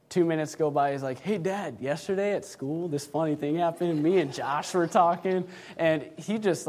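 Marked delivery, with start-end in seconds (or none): 1.2-5.4 put-on light, slightly lifted kid chatter; imitated carefree chatter. Brother telling Dad about school after a scolding, breezy chatter. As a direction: prattle on as if nothing happened. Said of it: "blow it off like it never even happened".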